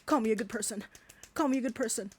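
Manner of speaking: sneering imitation of a man fishing for compliments; mock impression of him. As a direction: parody him begging for praise. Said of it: "that's what you fucking sound like".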